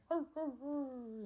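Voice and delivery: high growling arr; growl, then scamper off; creature growl. Acted. Chipmunk creature growling as it runs off, high growl. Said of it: "chipmunk thing's like".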